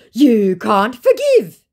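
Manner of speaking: mock the scammer's guilt trip; imitating a whiny scammer; mock whine. Scammer reproach.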